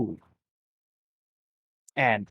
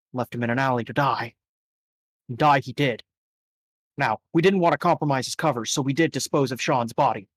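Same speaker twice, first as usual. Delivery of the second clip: boss NPC; 2 semitones lower than usual. Acted.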